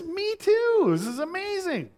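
high, loud, hammed-up delight; excited amazement. Passerby learning both are Baptists, excited amazement. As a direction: exclaim in thrilled, high-pitched surprise. Acted delighted discovery in joke.

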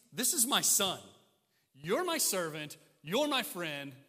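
lightly acted, forceful declaration; emphatic Father. The Father ranking son above servant and friend, emphatic. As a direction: set each one apart with firm, loud emphasis. Voicing the Father setting Jesus apart.

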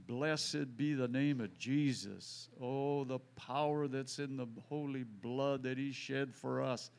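a fervent prayer said slow and loud enough to overhear; slow loud praise prayer. Acted. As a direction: praise Jesus aloud, slowly, so it carries. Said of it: "I'm saying it loud enough that he can probably hear".

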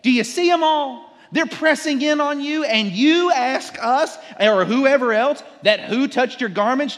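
high, loud exasperated mockery; sarcastic disciples. Disciples scoffing at Jesus about the crowd, loud and exasperated. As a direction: roll your eyes as you say it. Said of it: "That's what they're saying".

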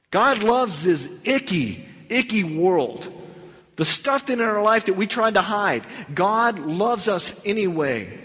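slow, each word leaned on; emphatic preaching. Real, not acted. Preacher stressing God to the congregation, slow and emphatic. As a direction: press God loves home to the listener. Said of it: "Nick, I don't think you understand here".

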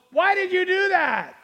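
high-pitched mock-incredulous why; indignant questioning tone. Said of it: "That was her tone".

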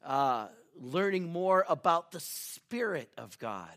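measured congregational prayer. Real, not acted. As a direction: pastor praying aloud. Leads an opening prayer.

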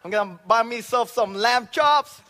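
loud, high whoop of delight; joyful whoop. Retold or imitated. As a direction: burst out cheering over the money. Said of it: "I was so joyful, like, happy".

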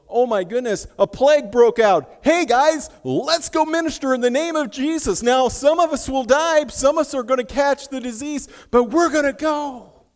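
high, loud call to rush in; rally the group to risk it all; fervent shout to fellow believers; rallying cry. Retold or imitated. Early Christians rallying in a plague.

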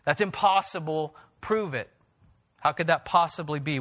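mild mock challenge, prove it; understated scoffing disbelief; skeptical. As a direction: throw down a doubting dare. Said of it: "a prove it kind of response".

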